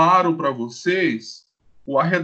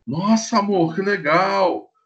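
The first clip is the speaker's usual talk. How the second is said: higher, delighted wife; light delighted wife, pitched up; mock wife voice; 3 semitones higher than usual. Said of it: "voicing the wife". (esposa encantada, voz mais aguda)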